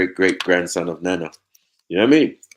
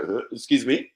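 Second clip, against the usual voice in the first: indignant; 5 semitones higher than usual. Retold or imitated.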